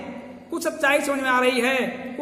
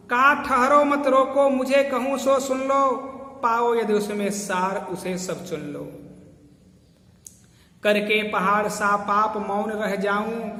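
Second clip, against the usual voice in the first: poem recitation. Acted. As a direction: declaim the verse, slowly drawing it out. Recites Kaikeyi's verse. (धीमे, ज़ोरदार स्वर में काव्य पाठ)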